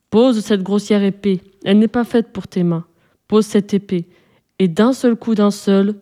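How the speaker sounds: a hint of a giant turned tender and tempting; soft and sweet. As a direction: lure her with honeyed promises. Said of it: "la voix du géant changea, devint douce".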